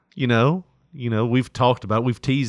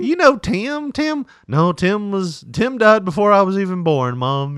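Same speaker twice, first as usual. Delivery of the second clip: imitating daughter; 8 semitones higher, 4 dB louder than usual. Daughter answers in high voice.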